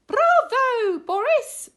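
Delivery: high, loud cheer. Acted. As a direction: shout praise at the hero. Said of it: "cheered his friends".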